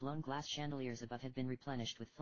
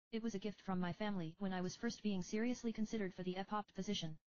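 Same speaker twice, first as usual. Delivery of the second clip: higher, earnest little priestess; young girl voice; 7 semitones higher than usual. Acted. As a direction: confide like a sincere young girl. Leonora confides.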